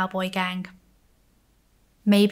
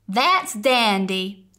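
called back; 5 dB louder, slower than usual. Acted. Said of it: "Sheriff Parr called back".

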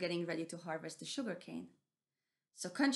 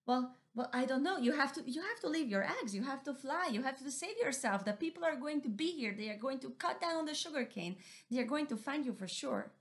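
higher, urgent pleading; worried mouse deer; 6 semitones higher than usual. Acted. Mouse deer urging Missus Owl to save herself. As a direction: press her to fly away.

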